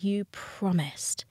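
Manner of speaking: quiet, breathy retold plea with a touch of tears; a hint of tearful begging, retold; retold sobbing plea. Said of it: "sobbing and being like".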